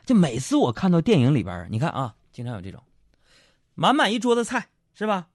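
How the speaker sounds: usual speaking voice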